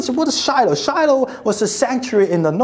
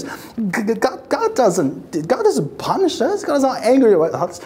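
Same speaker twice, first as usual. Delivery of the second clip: stammering denial; 2 semitones higher than usual. Retold or imitated. Worshipper denying God's anger.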